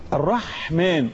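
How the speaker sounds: الرحمن slowly, lingering on the breathy ح; slow الرحمن with an audible Haa; husky Haa. Shown as a demonstration. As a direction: draw out the throat friction of ح in الرحمن. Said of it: "كتبنا إيه في الحاء".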